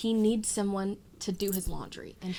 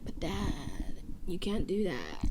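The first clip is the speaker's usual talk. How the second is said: mock teenage protest, drawn out at the end; protesting son; slower than usual. Son objecting to losing keys and wallet, protesting. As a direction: plead slowly with dad. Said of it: "Carmine's like".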